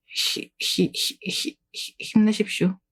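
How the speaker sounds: breathless giggling stammer; laughing stammer. Real, not acted. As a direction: choke on giggles while cheering.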